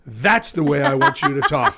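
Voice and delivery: amused punchline. Retold or imitated. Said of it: "and he goes".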